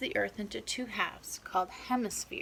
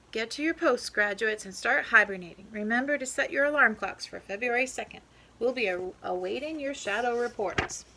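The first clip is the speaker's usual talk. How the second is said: professor's orders; 4 dB louder than usual. Acted. Professor sends graduates off.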